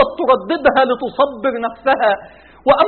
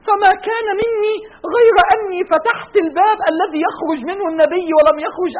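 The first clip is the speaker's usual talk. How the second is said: tearful telling; 4 semitones higher than usual. Acted. عائشة تروي وفاة النبي.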